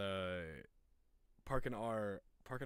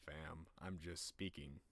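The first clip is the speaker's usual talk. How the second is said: low, soft and slow; naturally deep voice; 4 semitones lower, 7 dB quieter, slower than usual. Shown as a demonstration. Streamer denying the deep music voice is put on, naturally deep. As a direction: drop it deep without effort. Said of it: "I don't have to try to make my voice this deep".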